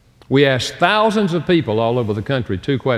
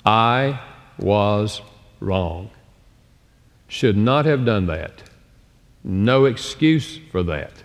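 sincere admission; 3 semitones lower, much slower than usual. Shown as a demonstration. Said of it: "accepting responsibility".

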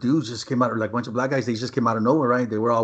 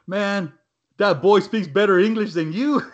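retold quote; 7 semitones higher, 4 dB louder than usual. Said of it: "he told the black guy".

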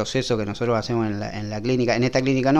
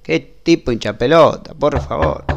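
exasperado; 4 semitones higher, 5 dB louder than usual. Acted. Doctor grumbles once patient leaves.

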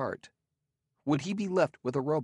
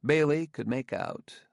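ordinary delivery, nothing marked

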